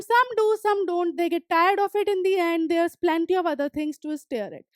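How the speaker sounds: reading the story text slowly, word by word; slow reading aloud. Acted. Teacher reading the story aloud to students, slow and clear. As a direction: read each English line slowly and clearly for the class.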